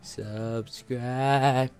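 drawn-out hypnotic chant. Pretend. Hypnotic wheel luring viewers to subscribe, long drawn-out chant. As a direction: stretch the word like a hypnotist. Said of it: "hypnotic wheel".

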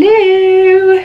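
high, loud startled hello; surprised hello. Real, not acted. Vlogger finds a strap in the wrong place, startled loud hello. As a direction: caught off guard by the dress.

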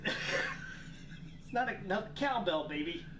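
weak, halting celebrity impersonation through laughter; Christopher Walken. Pretend. Player in the accent challenge, weak celebrity impersonation. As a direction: attempt a halting film-star voice while cracking up. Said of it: "Oh, you're doing Christopher Walken".

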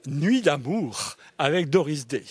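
"Nuit d'amour avec Doris Day" read slowly, falling at the end; slow evocative reading. Shown as a demonstration. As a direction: let the title linger. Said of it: "phrase nominale, très évocatoire". (lire « Nuit d'amour avec Doris Day » lentement, en descendant)

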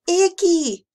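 high, loud gleeful squeal; mock-giggly high exclamation; laughing child. A narrator's reading. Little Emma delighted by a slimy monster, gleeful squeal. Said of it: "she laughed".

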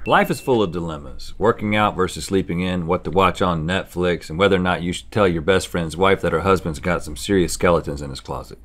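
deep movie trailer narrator; dramatic trailer announcer read; trailer voiceover. Acted.

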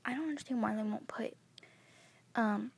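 hushed whisper all the way through; whispered vlog to the camera. Real, not acted. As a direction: keep it to a whisper, like someone might hear. Kid whispers whole vlog.

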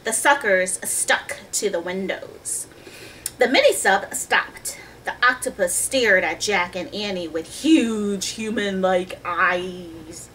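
put-on measured storybook reading to children; story narration. A narrator's reading. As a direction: read the tale clearly, stretching key words. Reads the story aloud.

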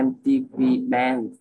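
slow careful English phrase; slow demo. Shown as a demonstration. Tutor slowly demonstrating "M T V band" to friend. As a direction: read "M T V band" slowly, letter by letter. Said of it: "ví dụ là".

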